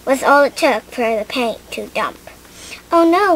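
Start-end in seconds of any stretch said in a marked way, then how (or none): 2.9-3.4 a louder, higher startled oh no; gasped. A narrator's reading. Lily as paint spills on her feet, dismayed gasp. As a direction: blurt it out in dismay. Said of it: "Lily gasped".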